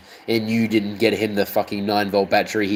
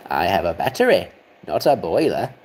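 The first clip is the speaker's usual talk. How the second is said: lower, steadier engine voice; better engine impression; 4 semitones lower than usual. Engine explaining it runs on batteries, lower and steadier. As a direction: settle it down low like a proud engine. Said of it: "Okay, that's better".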